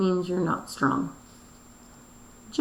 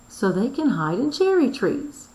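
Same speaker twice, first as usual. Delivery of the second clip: exclaiming; 4 semitones higher, 4 dB louder than usual. Shown as a demonstration. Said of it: "she's exclaiming".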